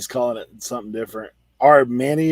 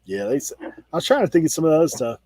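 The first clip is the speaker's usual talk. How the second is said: usual speaking voice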